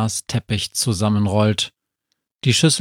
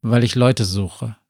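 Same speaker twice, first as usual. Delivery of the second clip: usual speaking voice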